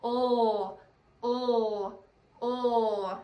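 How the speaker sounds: held L sound "lll", written "oh"; three long, sustained "lll" hums; letter-sound demo. Shown as a demonstration. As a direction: say "oh" as a drawn-out L consonant. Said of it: "lay on a log and say".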